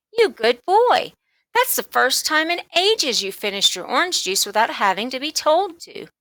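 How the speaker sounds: beam with pride at him; praising mother. Acted. Mother praising her son for the empty glass, delighted.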